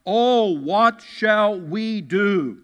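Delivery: slow, drawn-out wail of worry; hammed-up panicked servant; mock cry of alarm. Servant crying out to the prophet, mock panic. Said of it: "The servant cried out".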